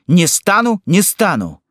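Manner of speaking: put-on high, repeated childish refusal; high-voiced, obstinate child; stubborn boy. A narrator's reading. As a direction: insist like a defiant little boy. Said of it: "твердил мальчик".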